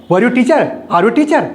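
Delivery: asking tune, lifted; questioning tune on "Are you teacher?"; question intonation. Shown as a demonstration. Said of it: "ऐसे".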